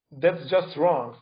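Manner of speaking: slow, firm rejection: that's just wrong; blunt academic rebuttal; flat dismissal. Real, not acted. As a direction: spell it out slowly, with no doubt left. Rebutting a colleague's claim.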